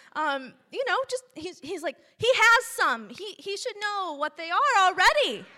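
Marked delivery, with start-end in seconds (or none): 2.2-5.4 frustrated, angry, high-pitched, loud ranting.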